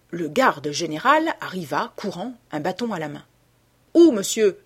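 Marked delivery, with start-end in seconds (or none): 3.9-4.6 loud urgent question; shouting. A narrator's reading. Head keeper running up to the hunter, shouting. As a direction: call out from a distance. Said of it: "cria-t-il".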